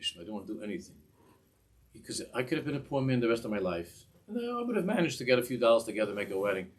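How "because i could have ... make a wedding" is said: bitter outburst. Retold or imitated. Bitter complaint to God.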